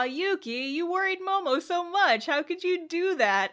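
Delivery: high, cooing reproach; gentle scolding. Retold or imitated. Bonri chewing out Yuki at their reunion, gentle scolding. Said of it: "gently chews out Yuki".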